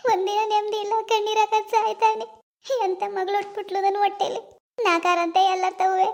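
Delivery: slow, tearful lament; tearful mother. Acted. Mother weeping slowly over her runaway daughter. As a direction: weep it out slowly, broken-hearted. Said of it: "ನೀವ್ಯಾಕೆ ಕಣ್ಣೀರ್ ಹಾಕ್ತೀರಾ".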